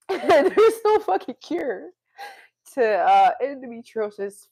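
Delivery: real upset cry of frustration; emotional outburst. Real, not acted. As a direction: let the frustration burst out, dragging the words. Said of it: "Sometimes I'm emotional like this".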